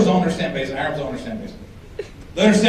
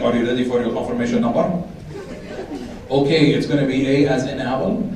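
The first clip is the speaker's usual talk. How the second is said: put-on Arab accent; 2 semitones lower than usual. Arab call agent acted out.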